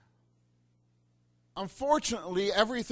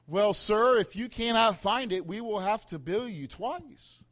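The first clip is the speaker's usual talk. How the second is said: mock condescending clerk; 3 semitones higher, 4 dB louder than usual. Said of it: "had the nerve to say".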